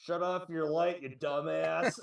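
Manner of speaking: mock yell. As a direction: imitate a heckler yelling, not at full volume. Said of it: "like, yells".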